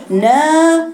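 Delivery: نا said high and pulled back, too full; teacher demonstrating the wrong نا for students. Shown as a demonstration. Teacher shows the wrong heavy نا. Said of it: "خطأ".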